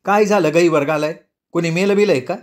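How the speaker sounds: irritated. Acted. Ratni angrily scolds the crying parents. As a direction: Ratni snaps at the wailing parents. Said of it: "रत्नी चिडूनच बोलली".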